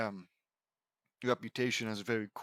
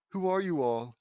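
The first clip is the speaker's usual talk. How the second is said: attempted British accent, a little louder; 3 semitones higher, 5 dB louder than usual. Reader voices a stranger's question in a light British accent. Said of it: "asks question mark in a British accent".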